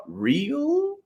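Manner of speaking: high, indignant scoff; insulted. A narrator's reading. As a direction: sniff at the very question.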